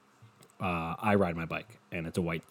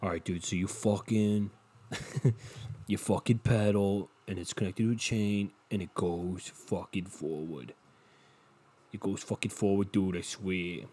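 bike inventor voice. Pretend. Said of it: "imagine being the guy who invented bikes".

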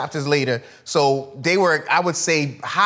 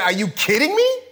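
higher, fast, fed-up king; exasperated king; 4 semitones higher than usual. Retold or imitated. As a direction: snap like a furious king. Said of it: "He was at the point saying".

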